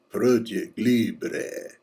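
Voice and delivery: slow, lightly Spanish "Project Libre"; Spanish accent. Shown as a demonstration. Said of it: "you just gotta say that with a Spanish accent".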